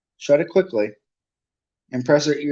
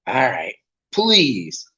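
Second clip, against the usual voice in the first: grudging caretaker; much slower than usual. Acted. Filch grudgingly giving in.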